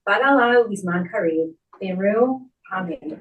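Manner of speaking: fast, rhythmic Aramaic prayer, rattled off from memory; rapid prayer recitation. Real, not acted. Officiant leading mourners in the Kaddish, swift prayer chant. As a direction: recite the Kaddish briskly and evenly, as a well-worn liturgy.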